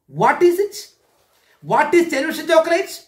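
put-on eager child asking. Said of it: "asked my T V".

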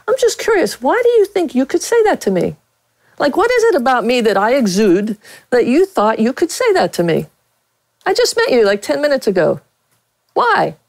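high, sweetly pointed questioning; mock-innocent curiosity. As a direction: feign innocent curiosity to call him out. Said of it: "and I said".

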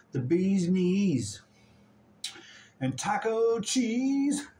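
slow, drawn-out rhyme for the dog; drawn-out loving singsong; doting slow sing-song. Real, not acted. Cooing rhyme to her dog.

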